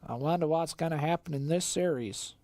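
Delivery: put-on American Southern accent. Caster musing on the series, mock Southern accent. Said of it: "That's very southern".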